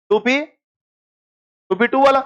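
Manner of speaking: slow, drawn-out टू P टू वाला; slow spelled-out answer. Shown as a demonstration. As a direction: lay it out word by word. Teacher spells out answer slowly.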